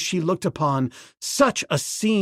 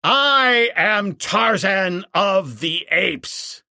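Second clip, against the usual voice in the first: ape man crying out; 5 semitones higher, slower than usual. Acted. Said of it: "cried the ape man".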